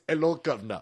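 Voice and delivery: Idi Amin. Acted. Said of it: "every accent Corey does sounds like Idi Amin".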